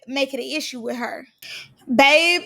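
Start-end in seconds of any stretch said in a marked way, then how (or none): 1.9-2.5 excited exclamation. Real, not acted. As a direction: belt it out like breaking big news. Recapping a dramatic reality TV moment.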